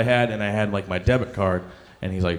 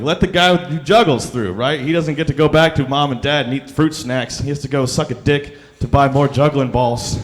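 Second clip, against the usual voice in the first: louder, higher indignant rant; mock rant; 4 semitones higher, 5 dB louder than usual. Shouting at America's Got Talent for the juggler, loud rant. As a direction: rail at the TV for the juggler.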